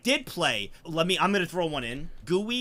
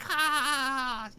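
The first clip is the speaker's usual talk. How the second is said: mock gloating laugh; 9 semitones higher than usual. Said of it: "She'd be like".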